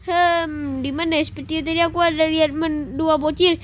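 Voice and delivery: low, lumbering giant elephant gleefully wrecking the town. Acted. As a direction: rumble it out like a huge clumsy elephant on a rampage. Elephant searching for the kids.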